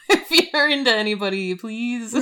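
laughing plea. Real, not acted. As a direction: plead through helpless giggles, slowing at the end. Jokey plea breaking into laughter.

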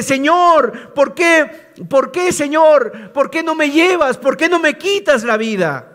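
a hint of a despairing Job begging; pleading lament. Preacher voicing Job asking God for death, lightly pleading.

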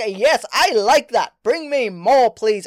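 eager. Retold or imitated. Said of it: "And I was like".

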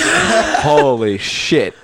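slow, laughing "holy shit"; laughing disbelief. Real, not acted. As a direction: drag it out through laughter.

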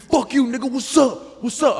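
high mock yelling taunt. White boy screams through glass, high mock taunt.

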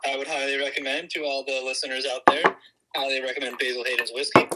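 speakerphone audio; thin voice through a phone line; over the phone. Real, not acted. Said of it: "you're on speakerphone".

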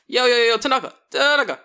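loud, high pestering call. Retold or imitated. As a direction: holler for a colleague's attention. Pestering colleague by calling out.

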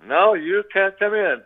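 mock frightened voice behind a barricaded door; terrified refusal.

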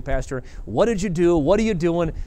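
the wrong way, challenge him; confronting the boss over a decision; accusing demand. Shown as a demonstration. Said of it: "That's not the right approach".

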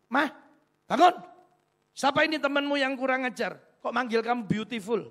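husband roused in the night, shouting at his wife; angry husband. Retold or imitated. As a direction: snap at her, jealous and loud. Husband angrily wakes wife.

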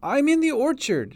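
put-on high, loud little-girl cry; distressed child, close to sobs; child calling out. A narrator's reading. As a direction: call for help in a child's voice. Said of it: "she called, before collapsing again into sobs".

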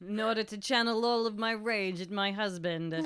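dramatic, relishing theatrical voice; hammy Marge voice. Retold or imitated. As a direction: ham up a tragic heroine. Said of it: "She's like".

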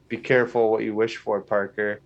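half-hearted attempt at a sinister warning; Doctor Strange. Podcaster quoting the trailer's warning to Parker, mildly sinister imitation. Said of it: "in a very sinister voice".

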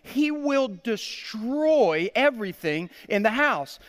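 high, mock-emphatic wifely veto; alarmed wife's refusal. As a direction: imitate a wife putting her foot down, drawing out the words.

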